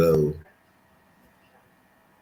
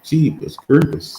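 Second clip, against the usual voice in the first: slow, higher, drawn out through a yawn; 8 semitones higher than usual. Real, not acted. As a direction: let a yawn stretch the words. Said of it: "I can't stop yawning".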